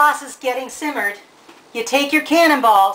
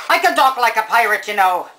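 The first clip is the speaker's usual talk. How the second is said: Irish pirate; 3 semitones lower than usual. Pretend. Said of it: "that sounded like an Irish pirate".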